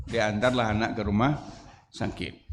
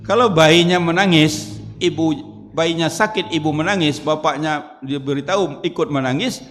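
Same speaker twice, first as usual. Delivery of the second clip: building alarm; 4 semitones higher, 4 dB louder than usual. Real, not acted. Preacher builds panic scenario.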